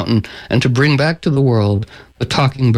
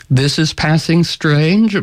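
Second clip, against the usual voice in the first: slow, slightly raised echoing delivery; talking bird; 3 semitones higher, slower than usual. Acted. Talking bird answers the Sultan, slow pointed echo. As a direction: echo it slowly, as a lightly voiced bird. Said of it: "And the talking bird says".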